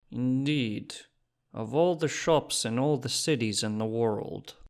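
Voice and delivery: put-on a suspicious shopkeeper in a Czech accent; dense Czech accent. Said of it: "said in a dense accent".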